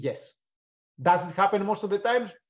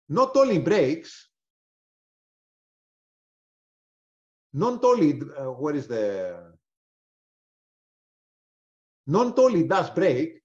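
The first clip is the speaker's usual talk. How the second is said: rising excitement; 2 semitones lower, slower than usual. Real, not acted. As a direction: savour each word as the price breaks. Excited about market move.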